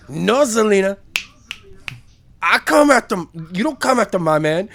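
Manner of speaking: mock Hispanic accent. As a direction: play a possessive girlfriend with a put-on Hispanic accent. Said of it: "almost Hispanic accent".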